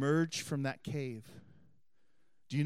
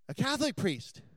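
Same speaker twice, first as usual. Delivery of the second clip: amazed question; 9 semitones higher than usual. Retold or imitated. Lady voiced, amazed he's a priest.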